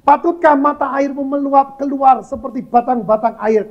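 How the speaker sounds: high, declaimed Bible verse; scripture reading. Real, not acted. Preacher reading a verse to the congregation, declaiming.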